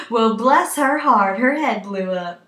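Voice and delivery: slow, lightly acted onlooker's aside; mock pity, drawn out slowly; pitying audience member. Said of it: "nudge each other and say".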